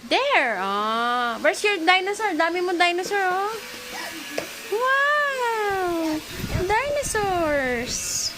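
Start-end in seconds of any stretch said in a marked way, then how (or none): 1.4-8.3 high wow, then a very slow drawn "Dinosaurs!"; excited wonder. Real, not acted. Aunt showing a child her dinosaurs with big excitement.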